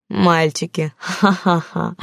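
sneering repeat of "Мальчики" with a mock laugh; mocking echo. Thug mocking the woman's plea, sneering laugh. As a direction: throw her word back with a jeering ха-ха-ха. Thug mocks her word.

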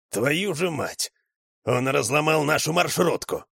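stunned outburst; shocked curse. A narrator's reading. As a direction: curse in disbelief. Man sees wrecked van.

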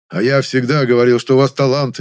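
loud, overjoyed exclamation; happy cry. Acted. Happy director praising the young man, loud excited cry. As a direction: cry out in delight. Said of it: "буквально вскричал счастливый".

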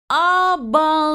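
high, slow, drawn-out astonishment; breathed-out amazement. A narrator's reading. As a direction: let it out slowly, stunned. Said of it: "выдохнула я".

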